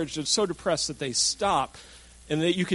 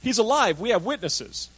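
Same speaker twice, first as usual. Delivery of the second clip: confident claim; 6 semitones higher than usual. Shown as a demonstration. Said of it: "Notice they didn't say".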